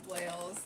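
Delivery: Wales said as one syllable like the country. Shown as a demonstration. Streamer reading a name to chat, saying Wales. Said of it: "it's not spelled".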